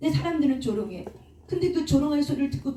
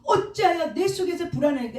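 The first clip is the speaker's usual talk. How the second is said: raised-pitch psalm quotation; psalmist's appeal; 5 semitones higher than usual. Acted. Preacher quoting the psalmist to his soul, mildly impassioned. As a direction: lift the voice into a mildly dramatized self-questioning. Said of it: "시편의 기자가 말한 것처럼".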